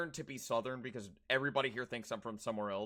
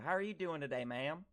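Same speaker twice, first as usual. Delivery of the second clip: polite Southern greeting, pitched a little up; courteous put-on Southern accent; 3 semitones higher than usual. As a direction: greet a lady as a Southern good old boy. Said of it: "when you do your Southern accent".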